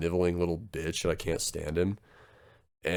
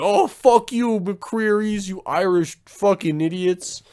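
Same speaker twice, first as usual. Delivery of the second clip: mock gangster yell; 11 semitones higher, 5 dB louder, slower than usual. Rival gangsters yell at McCrearys.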